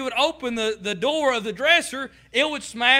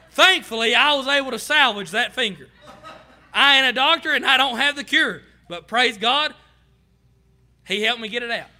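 laughing relief; 4 dB louder than usual. Real, not acted. Relieved laughing over rescued finger.

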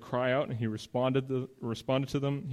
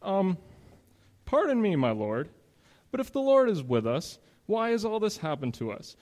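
Gideon's plea; 3 semitones higher than usual. Acted. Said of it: "Gideon responds the way a lot of us would".

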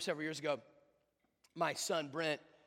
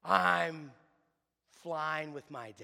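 loud, drawn-out start, then easing off; excited little boy; 7 dB louder, much slower than usual. Retold or imitated. Brent answering the Starbucks guy, imitated excitement. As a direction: imitate a kid proudly announcing it. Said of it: "he was so excited".

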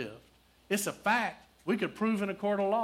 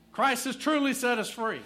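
verse proclaimed louder and higher; preached out; 8 semitones higher, 6 dB louder than usual. Acted. Preacher proclaiming the freedom verse to the church, loud and high. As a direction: ring it out to the congregation.

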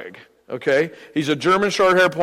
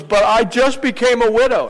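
lightly voiced protesting widow, pitched higher; little old lady; 7 semitones higher, 3 dB louder than usual. Old lady answers the preacher back, higher mock protest. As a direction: imitate an old lady's higher-pitched objection. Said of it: "And she goes".

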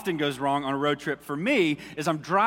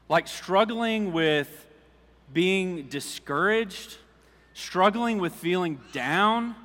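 slow heartfelt confession; 2 semitones higher, slower than usual. Real, not acted. Confessing personal struggle slowly.

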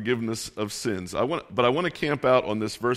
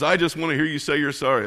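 higher-pitched, mock angry demand; retold angry demand; 4 semitones higher, faster than usual. Angry driver confronting the man who cut him off, mock angry. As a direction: imitate an irate driver, mildly worked up. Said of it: "he's just going nuts".

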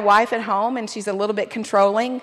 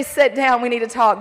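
stern summons; 4 dB louder than usual. Shown as a demonstration. Husband demanding a talk with his wife, stern. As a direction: say it abruptly, with force. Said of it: "just say it with a smile".

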